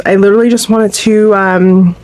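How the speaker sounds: slightly winded, short of breath. Real, not acted. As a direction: talk while catching your breath. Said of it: "I'm a little bit winded".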